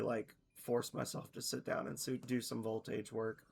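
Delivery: hoarse, voice going. Real, not acted. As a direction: talk through a voice that's fading. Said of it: "I feel like I'm losing my voice".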